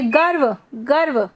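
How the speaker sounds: गर्व said in one quick syllable, r rolled fast into व; quick pronunciation model. Shown as a demonstration. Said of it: "जल्दी से पढ़ेंगे". (गर्व को जल्दी से एक साथ बोलना)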